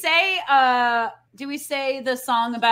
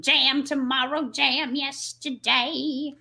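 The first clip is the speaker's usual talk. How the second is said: slow, campy diva voice; Carol Channing voice; much slower than usual. Retold or imitated. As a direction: drag out each word like Carol Channing. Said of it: "I'm doing her voice right now".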